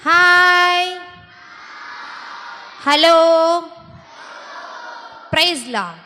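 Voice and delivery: call-out greeting. Real, not acted. Leading children in drawn-out greetings.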